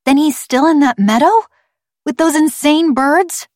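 put-on high-pitched, agitated child's voice; high, urgent girl's protest; alarmed girl. A narrator's reading. Girl alarmed for stranded cousin.

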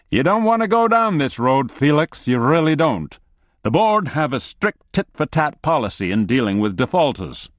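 high, pushy nervous warning; nervous threat. Acted. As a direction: bluster a threat in alarm. Analyst threatening the colonel.

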